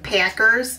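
Wisconsin accent, slow "Packers" with a long stretched A; Wisconsin vowel. Shown as a demonstration. Showing viewers the Wisconsin accent, a slow stretched "Packers". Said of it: "Wisconsin seems to emphasize the A more".

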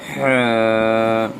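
হ্যাঁ pushed from mid-throat with pressure; Arabic ح from the throat; throaty ha sound. Shown as a demonstration. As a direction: breathe হ্যাঁ out hard from the throat. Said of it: "হলকের মধ্যখান থেকে pressure দিয়ে".

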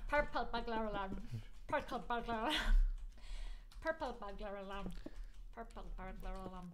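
practising a put-on Scottish accent; Scottish accent, fading away as you repeat it. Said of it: "You gotta say that in a Scot".

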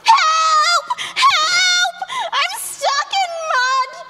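high panicked cries for help; stuck in mud. Pretend. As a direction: call out like someone trapped. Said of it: "pretend, Floss, that you're stuck in the mud".

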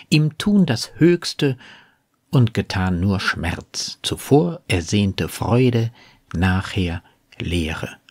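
flowing but measured verse reading; quoted sonnet, deliberately phrased; poem recitation. Acted. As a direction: recite with stressed key words, settling down at the close. Quotes the sonnet between commentary.

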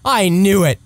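high, thrilled exclamation; amazed excitement. Real, not acted. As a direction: burst out in delighted disbelief. Companion suddenly revives.

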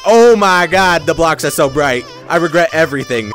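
exaggerated loud regret; loud dismay. Real, not acted. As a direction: cry out as if overwhelmed by the glare. Dazzled by bright blocks in game.

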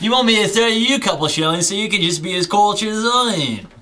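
put-on smug light Australian accent; fake Australian accent. Taunting his jealous friend, smug Australian accent. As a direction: condescend in a mild Aussie twang. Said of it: "distinctly Australian accent".

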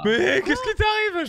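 high, slow, drawn-out disbelief; stunned disbelief. Real, not acted. Teammate says he feels fat. (surpris, incrédule)

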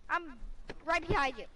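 high-pitched call to a teammate; playful calling out. Pretend. Answering where are you, calling out.

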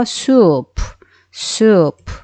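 soup with a long drawn-out oo; long vowel. Shown as a demonstration. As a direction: hold the middle of soup before closing on p. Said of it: "길게 소리 난 거예요". (모음을 길게 끈 'soup')

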